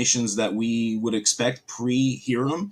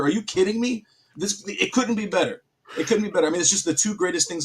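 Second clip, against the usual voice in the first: excited; 6 semitones higher than usual. Real, not acted. Raving about pie.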